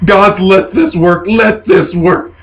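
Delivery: slow, acted pleading; desperate prayer. Londo rides the ogre for dear life, praying. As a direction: draw out each plea, lightly desperate. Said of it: "riding it for dear life".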